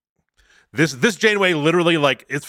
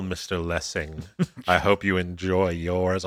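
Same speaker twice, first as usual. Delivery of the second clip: low, much softer, icy threat; cold menace; 6 semitones lower, 6 dB quieter than usual. Retold or imitated. Retelling the captain's chilling line to the prisoner, low and icy. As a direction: murmur it like a quiet death sentence.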